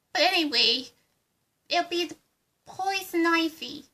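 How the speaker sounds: lightly put-on Harley Quinn accent; a hint of Harley Quinn's Brooklyn accent; bubbly sidekick in a mild Harley Quinn accent.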